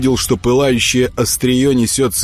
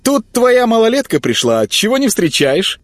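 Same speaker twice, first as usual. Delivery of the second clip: put-on much higher, loud teasing girl calling out; ringing girl's voice; 3 dB louder than usual. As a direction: call to him playfully from afar.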